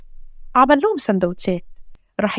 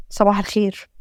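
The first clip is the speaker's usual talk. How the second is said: low, subdued good morning, holding back worry; downcast greeting; 3 semitones lower than usual. Acted. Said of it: "مش باين من صوتك".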